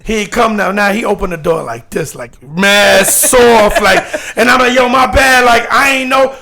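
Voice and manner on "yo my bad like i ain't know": eager apology. Retold or imitated. Apologizing to Kid Capri.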